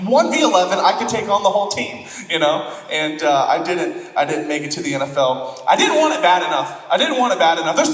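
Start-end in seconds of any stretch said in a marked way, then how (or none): 0.1-2.1 put-on cocky kid to coach. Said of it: "That's how I felt like".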